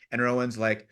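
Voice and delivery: usual speaking voice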